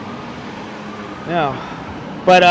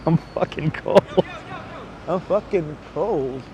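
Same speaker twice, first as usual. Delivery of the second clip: teeth chattering; 3 semitones lower, 8 dB quieter, slower than usual. Real, not acted. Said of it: "can you hear my teeth chattering?".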